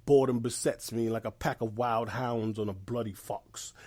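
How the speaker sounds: lots of tude, like really feeling it; with attitude. Real, not acted. Podcast guest shares his phrase of the week, with attitude. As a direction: say the phrase like you mean it. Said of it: "He said it with tude".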